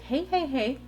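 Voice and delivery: lightly voiced, coaxing reassurance; reassuring husband. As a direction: imitate a husband talking his wife down. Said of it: "that is him reassuring me".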